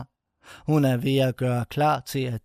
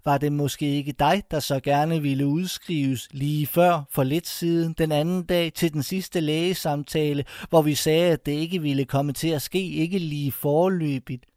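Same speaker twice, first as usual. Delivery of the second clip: mock sarcastic staff; 3 semitones higher than usual. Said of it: "Og så kan de sige".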